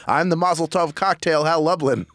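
big ringmaster show intro. Acted. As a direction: announce it like a circus ringmaster. Opens the show like announcer.

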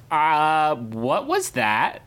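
high-pitched, affronted voice with drawn-out words; indignant leg muscles. Retold or imitated. Leg muscles complaining to their owner on the train, indignant. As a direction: protest like a put-upon body part. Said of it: "my leg muscles would be like".

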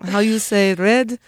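lightly put-on Italian accent. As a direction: fake Italian tourist accent. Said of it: "an Italian accent".

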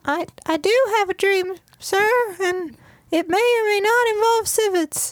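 put-on high eager kid voice, Mickey Rooney style; wholesome 1950s kid. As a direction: play a gee-whiz young hopeful. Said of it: "like a Mickey Rooney type".

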